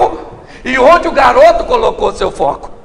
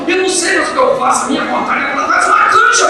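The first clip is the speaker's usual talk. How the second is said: mock tearful whine, pitched up; imitated crying; 5 semitones higher, faster than usual. Church sister upset over the flying chicken, mock crying. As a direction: complain in a raised, put-on weepy voice. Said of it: "E ela chorando que".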